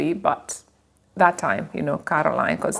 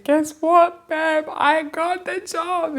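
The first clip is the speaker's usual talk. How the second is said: higher, thrilled announcement; excited news; 8 semitones higher, slower than usual. Retold or imitated. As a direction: burst out with the good news. Telling husband she got job.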